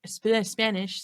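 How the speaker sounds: talking around a wad of gum; chewing gum. Real, not acted. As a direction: gum in the mouth while talking. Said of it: "I can't talk when I have gum in my mouth".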